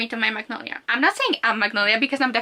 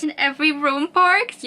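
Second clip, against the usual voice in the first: excited reading; 4 semitones higher, 5 dB louder than usual. Acted. Reading a flirty line from the book.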